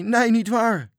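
very high, loud anguished wail. A narrator's reading. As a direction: wail the denial in despair. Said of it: "jammerde Arie".

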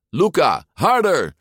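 loud, high urgent order; commanding. A narrator's reading. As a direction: order your rowing partner to speed up. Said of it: "beval Alberto". (luid bevelend)

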